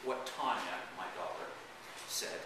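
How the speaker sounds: dramatic first-person reading; story narration. Acted. Author reads the grandpa memoir to an audience, dramatic narration. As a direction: read it as a theatrical, wry memoir.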